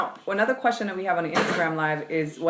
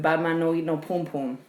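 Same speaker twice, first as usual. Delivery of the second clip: put-on Toronto Caribbean accent. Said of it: "my Canadian accent".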